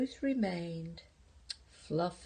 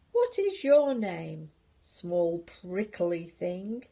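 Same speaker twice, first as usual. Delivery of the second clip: unkind rhino; 4 dB louder, slower than usual. Acted. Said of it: "asked the rhinoceros unkindly".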